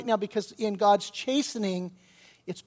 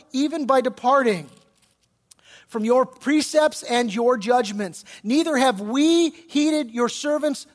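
forceful, declamatory prayer of confession; fervent scripture prayer; 3 semitones higher, 5 dB louder than usual. Acted. Preacher reading Daniel's prayer of confession, fervent. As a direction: proclaim the confession with weight and conviction.

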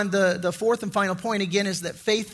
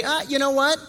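smug excuse; 3 semitones higher than usual. Pretend. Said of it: "he could say".

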